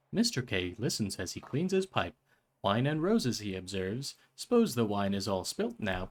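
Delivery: lightly voiced storybook reading; mild narrator voice; story narration. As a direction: read it like a gentle old tale. Reads game text aloud.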